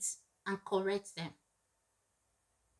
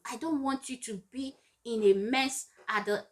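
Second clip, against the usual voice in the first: tender scolding. Retold or imitated. Parent tenderly explaining to child.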